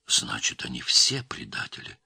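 low, hushed opening word; stunned realisation. A narrator's reading. Girl realising betrayal, low and stunned. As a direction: let the betrayal sink in.

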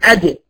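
أد with a bouncing jeem release; أد with the jeem burst open into a small echo; jeem with qalqala. Shown as a demonstration. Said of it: "أقلقل عشان أطلع صوت الجيم".

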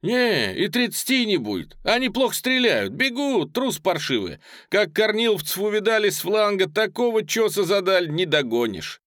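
very high, loud, gleeful; exhilarated young messenger's report; excited boasting. Acted. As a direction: crow over the fleeing enemy.

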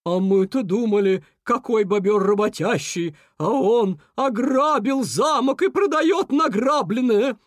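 scornful, rising elk voice; contemptuous snort. A narrator's reading. Elk scorning the thieving beaver, contemptuous. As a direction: build into drawn-out high indignation. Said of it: "презрительно фыркнул Лось".

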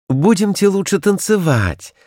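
a toy doll suggesting a dance; doll's voice. A narrator's reading. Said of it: "сказала кукла".

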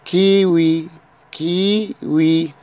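كيوي with a crisp k, the second time slow; كيوي, slow on the repeat; French kiwi. Shown as a demonstration. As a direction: say كيوي clearly, then stretch it. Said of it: "كا".

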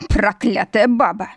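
slow, half-hearted squeal of a curse; shrieked curse. A narrator's reading. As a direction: curse her in a mild mock shriek. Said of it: "Взвизгнул бывший жених". (взвизгивает с проклятием)

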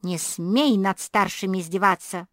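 retold yell. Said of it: "Завопила".

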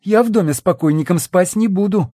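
high, shaky frightened plea; trembling voice. Acted. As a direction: tremble as you refuse. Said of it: "дрожащим голосом заявила Ольга".

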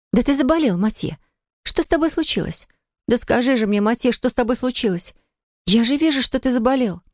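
a frightened lover begging for an answer; alarmed young woman. Acted. Sonya's worried pleading voice. (высокий встревоженный женский голос)

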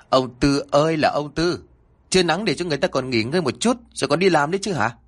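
complaining neighbor. Acted. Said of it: "Tiếng phàn nàn đó".

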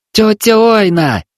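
slow, high shout straining the voice; yelling, voice nearly breaking. Acted. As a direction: yell until the voice almost cracks. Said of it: "выкрикнул он, почти срывая голос".

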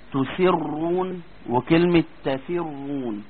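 "تسرون" and "تفرون" slow, ra kept thick; heavy ra. Shown as a demonstration. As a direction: say "تسرون" slowly without thinning the ra. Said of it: "أشهر كلمات في الخطأ".

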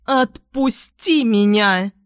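a slow, mild mock yell; mother yelling at Tom to let go, mild yell; shout. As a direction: demand release with a half-hearted shout. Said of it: "кричит мать".

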